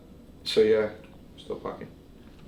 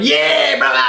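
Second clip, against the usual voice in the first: high, loud re-enacted yell; retold shouting; 8 dB louder, slower than usual. Vlogger retells running to the hotel door, re-enacted shout. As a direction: act out hollering through a door. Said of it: "shouting, um, what was I shouting?".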